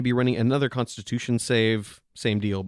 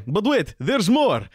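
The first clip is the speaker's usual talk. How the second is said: slow, loud, high "wait, there's more"; infomercial pitch; 9 semitones higher, 5 dB louder, slower than usual. Acted. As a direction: sell it like a TV pitchman. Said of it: "Artyom's going to say".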